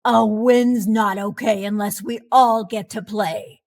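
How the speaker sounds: lightly voiced grumpy coach scolding; scowling. A narrator's reading. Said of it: "Coach Krabby scowled".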